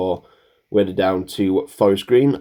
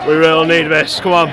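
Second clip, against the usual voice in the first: yelling from the sidelines; 8 semitones higher, 6 dB louder than usual. Real, not acted. Urging the team in final seconds.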